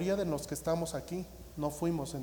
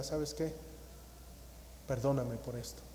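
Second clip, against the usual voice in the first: softer, humble asking for forgiveness; humble apology; 7 dB quieter than usual. Shown as a demonstration. A believer asking someone's forgiveness, softer and humble. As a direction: offer it gently, head bowed.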